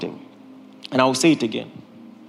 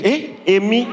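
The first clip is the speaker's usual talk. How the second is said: mock surprise; 2 semitones higher than usual. Feigned surprise.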